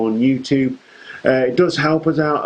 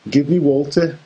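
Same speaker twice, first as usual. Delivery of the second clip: put-on second try, still a Liverpool Scouse accent; a Scouse accent that won't shake off. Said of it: "No, it still sounded Scouse".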